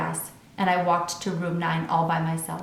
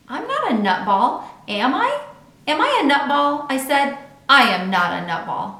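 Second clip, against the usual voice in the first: anxious pleading; 6 semitones higher, 5 dB louder than usual. A narrator's reading. Junie B. anxiously asks.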